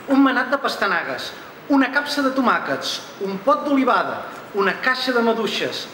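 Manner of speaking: rhythmic list, each item falling at its end; list poem recital. Acted. Reads list poem in Catalan.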